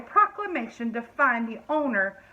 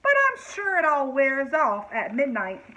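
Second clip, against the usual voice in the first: fairy voice; 3 semitones higher than usual. Acted.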